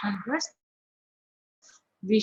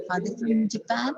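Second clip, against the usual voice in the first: light "are" in a rising question; unstressed ARE. Shown as a demonstration. Teacher repeats the example question, ARE unstressed. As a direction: keep "are" weak, lift "Japan". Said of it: "we don't put force on R".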